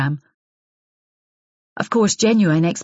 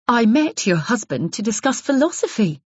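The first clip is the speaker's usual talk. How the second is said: strained even voice; 6 semitones higher than usual. Acted. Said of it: "struggling to keep her voice even".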